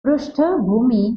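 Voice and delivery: पृष्ठभूमि with "pru" at the start; careful teacher's पृष्ठभूमि, vocalic r; correct pronunciation. Shown as a demonstration. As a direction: model पृष्ठभूमि as "prushtha-bhoomi". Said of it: "पृष्ठभूमि नहीं बोलेंगे".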